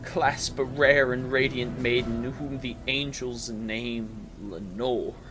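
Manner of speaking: high, loud pleading that eases toward the end; desperate imploring. A narrator's reading. Narrator loudly begging the raven about Lenore. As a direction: beg the bird, then soften at her name. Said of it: "I said".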